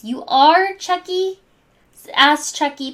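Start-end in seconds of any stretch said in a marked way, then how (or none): 0.0-1.4 much higher, hopeful lift; perking up. Acted. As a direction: brighten with sudden hope. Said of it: "perking up".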